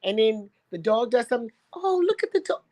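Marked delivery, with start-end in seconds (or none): 1.7-2.6 mock dog owner. Mocking dog owners' baby talk.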